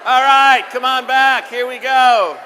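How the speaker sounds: loud call to the room, up high; big hall-wide call. Real, not acted. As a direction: summon the groups back across the hall. Calling the groups back together.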